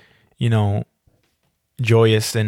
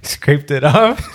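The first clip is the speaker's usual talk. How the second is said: drawn-out, disbelieving question; incredulous echo; 3 semitones higher, 3 dB louder, much slower than usual. Real, not acted. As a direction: repeat it slowly in teasing disbelief. Mocking echo of friend's excuse.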